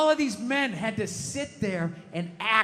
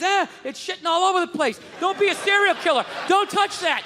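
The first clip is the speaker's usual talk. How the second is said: frazzled parent yelling; 4 semitones higher than usual. Retold or imitated.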